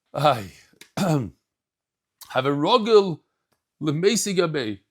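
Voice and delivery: slow, emotion catching in the throat; choked-up voice, clearing the throat. Real, not acted. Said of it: "choking up a little bit".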